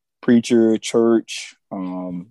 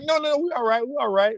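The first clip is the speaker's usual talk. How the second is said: quoting Clark; 13 semitones higher, 4 dB quieter, faster than usual. Retold or imitated. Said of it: "He's like".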